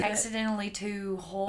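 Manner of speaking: quiet, Texan-sounding attempt at Australian; botched Australian accent. Co-host retries the line, botched Australian accent. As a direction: try Australian and land near Texan. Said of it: "That sounds like ... Texan".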